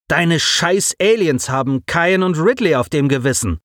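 mild angry accusation; bully throwing blame; blustering. A narrator's reading. Alex accuses Simon, mild blustering anger. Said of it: "polterte Alex".

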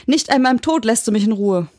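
high, exasperated outcry; angry scream. Acted. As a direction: cry it out in exasperation. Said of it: "schrie sie".

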